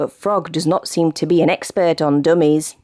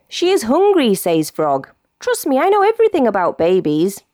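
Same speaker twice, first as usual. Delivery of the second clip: high, quick know-it-all frog voice; confident Frog; 4 semitones higher than usual. Acted. Frog tells Monster the baby is hungry, boastful. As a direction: brag like an expert.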